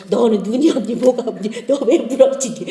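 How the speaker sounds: mock scolding with a laugh; imitated condemning mother, mild. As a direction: scold the child, half laughing. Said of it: "율법으로 막 제가 정죄하고".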